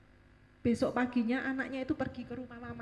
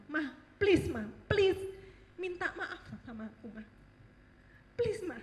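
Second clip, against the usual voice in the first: irritated pleading; 4 semitones higher than usual. Retold or imitated. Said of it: "iritasi sekali ya".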